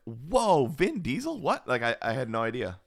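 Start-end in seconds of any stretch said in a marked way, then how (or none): 0.1-1.7 startled disbelief, pitched up; surprised. Retold or imitated. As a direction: caught off guard, half-laughing. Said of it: "I was like".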